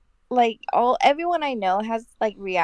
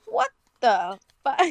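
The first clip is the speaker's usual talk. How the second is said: imitated disbelief. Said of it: "my colleague straight up goes".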